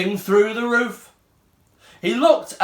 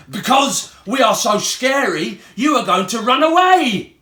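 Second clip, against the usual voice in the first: mild yell; 5 semitones higher, 4 dB louder than usual. Acted. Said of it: "yelled Ugly Mug".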